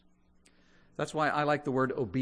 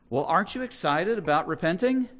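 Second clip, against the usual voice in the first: excited challenge; 6 semitones higher, 7 dB louder than usual. Acted. Preacher challenges the congregation.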